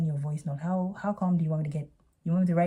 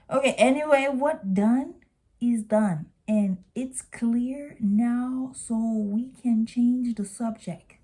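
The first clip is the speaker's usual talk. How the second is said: slow, slightly higher mocking read; mocking her English; 4 semitones higher, slower than usual. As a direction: drag out her clumsy English slowly. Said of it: "her English really bugs me".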